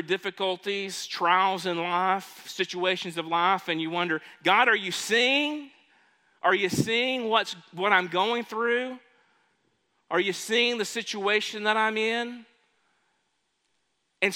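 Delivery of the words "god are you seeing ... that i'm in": higher-pitched, mildly pleading questions; pleading prayer. Acted. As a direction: voice a troubled believer questioning God. Voicing a troubled believer's prayer.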